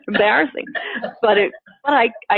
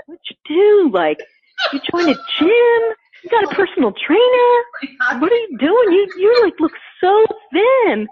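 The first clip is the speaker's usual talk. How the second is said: much higher, gushing disbelief; amazed friends; 10 semitones higher than usual. Retold or imitated. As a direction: gush it like an astonished friend. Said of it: "they'd be like".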